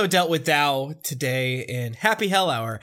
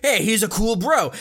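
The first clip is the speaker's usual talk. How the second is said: casual genie voice; 3 semitones higher, 5 dB louder than usual. Retold or imitated. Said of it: "she's like".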